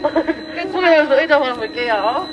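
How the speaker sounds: slowed down so they understand. Shown as a demonstration. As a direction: spell it out slowly for a foreigner. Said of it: "못 알아들어요".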